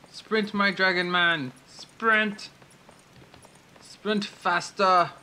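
high, slow drawn-out urging; urging cries. Pretend. Player cheers on dragon man character, high and drawn out. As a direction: egg him on, stretching each word.

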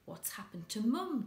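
alarmed, calling out in panic; a boy crying out in fright about his mother; cried out. Acted. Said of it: "Jack cried".

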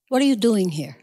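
lightly voiced Jewish mother; a hint of a Jewish mother's questioning. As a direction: ask it like a Jewish mother, understated. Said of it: "saying it like a Jewish mother".

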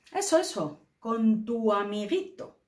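mocking, resentful intonation; scornful tone. Shown as a demonstration. Teacher demonstrates the scornful tone, mocking and resentful. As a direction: spit out amiguito with contempt. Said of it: "lo entonamos así".

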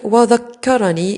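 slow وذكرني broken as wa-dhak-karanii; very drawn-out وذكرني, doubled k pulled apart; split doubled kaf. Shown as a demonstration. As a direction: hold the first kaf of وذكرني, then release the second. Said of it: "إذن يوجد إدغام يفك".

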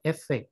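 "effect" stressed differently from "affect"; contrasting word stress. Shown as a demonstration. Lecturer contrasting noun with verb, "effect" with its own stress. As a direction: say "effect" as a pronunciation model, set apart from "affect". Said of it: "อันนี้ออกเสียงว่า effect นะครับ stress คนละที่".

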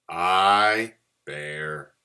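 solemn declaration, opening loud; announced. A narrator's reading. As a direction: dictate a will with great gravity. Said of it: "announced Bear".

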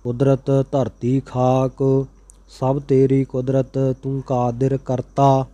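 measured, even chanting of sacred verse; scripture recitation. Acted. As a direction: recite each line steadily, phrase by phrase. Recites scripture verses between explanations.

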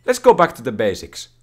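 retold thought. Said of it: "I was thinking".

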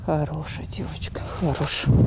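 soft tender whisper. Real, not acted. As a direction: whisper praise to a horse. Whispering to the mare.

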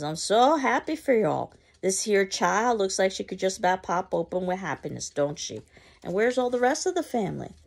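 high, loud gushing; gushing neighbor. Acted. Mrs. Johnson gushing over the family, high and bright. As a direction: pour on false delight.

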